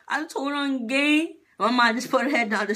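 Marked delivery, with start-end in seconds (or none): 0.1-1.4 slow, higher-pitched mock wail; mock tearful. Imitating crying while telling mom, mock tearful. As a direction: drag it out as a pretend cry.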